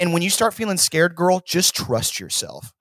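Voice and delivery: mock self-affirmation, slowing at the end; lightly imitated girly motivational talk; mirror pep talk. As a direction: coach yourself earnestly, in parody. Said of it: "looks at herself in the mirror".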